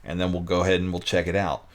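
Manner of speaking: ordinary talk, nothing marked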